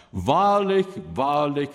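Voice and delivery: "Wahrlich, wahrlich" called out high and loud; "Wahrlich, wahrlich" hammered home, high and strong; special emphasis. Acted. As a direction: ring out each "Wahrlich", the first one highest. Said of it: "das ist eine besondere Betonung".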